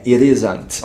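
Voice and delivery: "it isn't" com o t virando um R rápido, "ir isn't"; it isn't com som de R. Shown as a demonstration. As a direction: junte o it ao isn't com um R leve. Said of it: "vai ter esse som de R". ("it isn't" no inglês americano, t soando como R)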